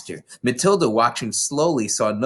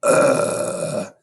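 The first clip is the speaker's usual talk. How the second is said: belch. A narrator's reading. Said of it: "let out a gigantic belch".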